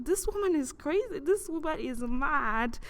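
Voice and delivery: agitated outcry, pitch leaping up and down; agitated disbelief. Retold or imitated. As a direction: recoil in disbelief at your own reflection. Acted disbelief at mirror image.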